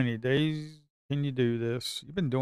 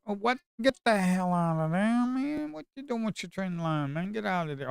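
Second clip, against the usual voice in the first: exasperated yelling; 8 semitones higher than usual. Real, not acted. Yelling at the chart's trend line.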